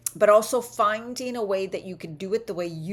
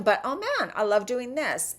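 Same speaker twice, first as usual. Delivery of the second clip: higher, lively burst of delight; mildly gushing about loving it; enthusiastic self-talk; 5 semitones higher than usual. Acted. Coach voicing a keen exerciser's positive self-talk, enthusiastic. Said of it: "let's say you're talking like this".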